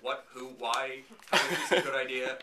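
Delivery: rapid-fire incredulous questions; baffled crowd reaction. Acted. Fans answering the director's explanation, baffled. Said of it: "to which everyone said".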